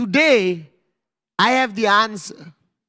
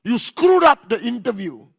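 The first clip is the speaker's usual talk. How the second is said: raised, scolding mock anger; imitated angry father; 2 semitones higher, 4 dB louder than usual. Father to child after failed interview, mock angry scolding. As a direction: tell off your child like a cross father. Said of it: "Your father will get angry".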